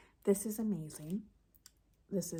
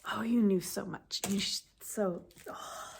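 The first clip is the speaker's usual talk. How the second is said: louder burst then catching into a tearful break; moved by the thoughtful gift, choking up; touched, voice breaking; 4 dB louder than usual. Real, not acted. Reading who chose the gift, tearful voice breaking.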